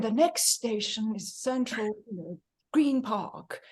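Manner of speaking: prim, posh English recorded announcement; imitating the posh recorded voice again; posh announcer. Teacher mimics the posh Tube recording for the class. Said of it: "the woman comes on again".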